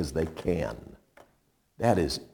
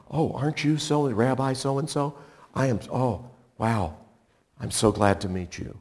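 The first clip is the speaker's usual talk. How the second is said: gushing fan; 4 semitones higher than usual. Retold or imitated. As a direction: gush over a celebrity rabbi, hushed and starstruck. Mock fan gushing at rabbi.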